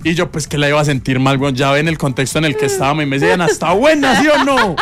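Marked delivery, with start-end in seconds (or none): 3.4-4.8 high, laughing eager question; Diana asking. Retold or imitated. Diana asks her friend about her arepa, high. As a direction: ask hopefully, pressing for an answer.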